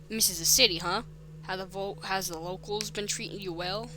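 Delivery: lightly voiced Boston policeman; attempted Boston accent. Policeman making small talk with the new boy, light Boston accent. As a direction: put on a slight Boston accent. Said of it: "He's gonna have a Boston accent".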